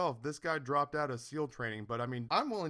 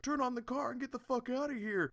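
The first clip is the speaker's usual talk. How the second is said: high, put-on punk voice; thug voice; 10 semitones higher than usual. Teen hoodlums order the girl to drive off, in a high put-on punk voice. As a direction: play a mouthy teenage hoodlum.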